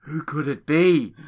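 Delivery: muffled behind a hand; hand over mouth. Real, not acted. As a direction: talk through your hand over your mouth. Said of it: "if you put your hand over your mouth".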